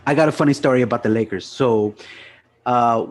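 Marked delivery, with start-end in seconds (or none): 0.1-1.4 fast, loud story opener; eager fast launch. Real, not acted. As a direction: rush into the story eagerly, louder. Excited start of story.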